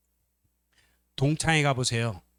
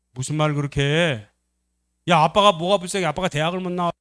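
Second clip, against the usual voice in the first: indignant; 3 semitones higher, 5 dB louder than usual. Acted. Son rejects sibling's pity for Dad, indignant. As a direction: object as if insulted on Dad's behalf.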